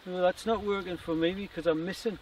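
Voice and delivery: light whine in the inner voice; whiny voice. Retold or imitated. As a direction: complain it to yourself. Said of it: "whiny voice".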